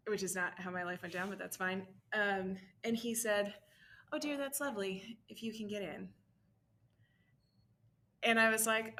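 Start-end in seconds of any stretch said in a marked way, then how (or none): 4.1-6.1 high, sweetly patronizing retold voice; lilting, falsely kind put-down; mock condescension. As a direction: imitate a dad's pitying politeness. Retold dad doubting her university plan.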